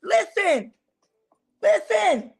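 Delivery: high, earnest preacher's question; lightly voiced Jesus challenging Peter; Jesus asking. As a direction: press him to answer. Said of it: "he said".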